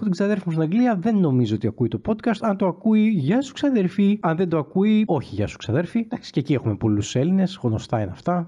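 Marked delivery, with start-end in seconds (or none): 3.1-4.2 high, drawn-out hello; mock shout-out. Podcaster to a possibly listening cousin, playful high greeting. 5.1-6.0 low, offhand retraction; greeting withdrawn. Pretend. Podcaster to a cousin who isn't listening, low offhand retraction.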